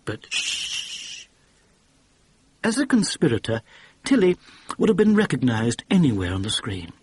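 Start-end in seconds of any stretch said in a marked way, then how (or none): 0.0-1.3 unvoiced, urgent hush; a quick breathy shh; whispered shush. A narrator's reading. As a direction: hush him before she's overheard. Warning him of listener inside.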